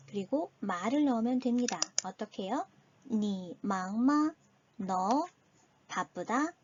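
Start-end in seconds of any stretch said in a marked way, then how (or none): 3.1-4.3 니 망마 said slowly, syllable by syllable in Chinese tones; slow, clear Chinese demo for learners; slow Chinese model. Shown as a demonstration. Teacher models the Chinese phrase slowly for students. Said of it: "이 순으로 단어를 집어넣어주면 됩니다".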